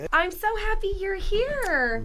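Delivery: high, slow, drawn-out gratitude; real emotional delight; touched and happy. Real, not acted. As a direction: stretch it out tenderly. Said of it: "I'm really getting emotional".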